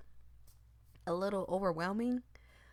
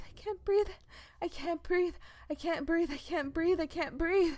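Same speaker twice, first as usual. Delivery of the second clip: loud, much higher panicked cry; 10 semitones higher, 6 dB louder than usual. Acted. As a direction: cry it out, fighting for air. Panic peaks, repeated lines.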